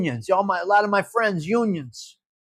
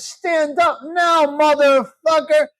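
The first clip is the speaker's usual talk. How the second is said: mimicking the alarm voice; 5 semitones higher, slower than usual. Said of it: "He said".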